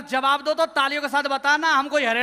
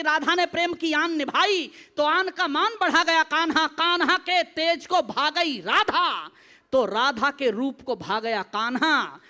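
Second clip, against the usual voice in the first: measured, lilting verse; devotional poetry recitation; slower than usual. Acted. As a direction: recite line by line with pauses.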